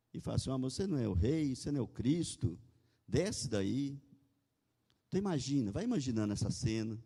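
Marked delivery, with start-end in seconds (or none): 0.5-4.0 lightly imitated taunting of a crowd; mild ridicule. Onlookers laughing at dying Jesus, mildly mocking. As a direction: retell it as a scoffing challenge. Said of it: "ridicularizam, ainda riem dele".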